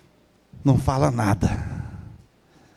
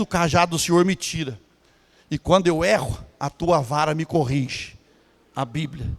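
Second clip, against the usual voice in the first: usual speaking voice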